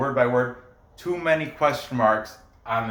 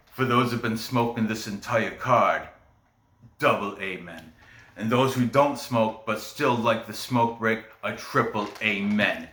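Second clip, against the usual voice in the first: lightly attempted, botched British accent; Leighton, bad British accent; 3 semitones lower than usual. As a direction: imitate a podcaster's British accent, not very well. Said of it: "I murder a British accent".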